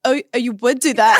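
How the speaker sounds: snide repeat, half laughing; a hint of a mean girl caught out; mild mocking jab; mock passive aggressive. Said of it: "then she'll be like".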